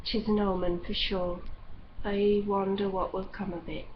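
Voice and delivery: put-on an old aunt muttering to herself; hushed, ominous mutter. A narrator's reading. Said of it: "as she muttered".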